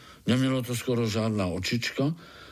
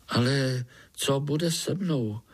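alarmed; 4 semitones higher than usual. Acted. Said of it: "vylekal se Pája".

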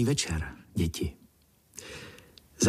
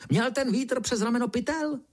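much higher squeaky beetle demanding; 13 semitones higher than usual. Acted. The beetle questions the ant about the wind, high squeaky demand. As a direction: grill him in a squeaky insect voice.

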